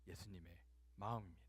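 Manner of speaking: normal talking voice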